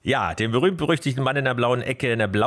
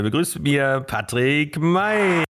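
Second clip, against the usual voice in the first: ring announcer; 5 semitones higher than usual. Acted. Introducing guest like ring announcer.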